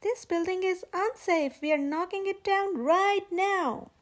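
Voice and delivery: foreman. Acted. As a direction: bark the order to stand back. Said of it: "said the foreman".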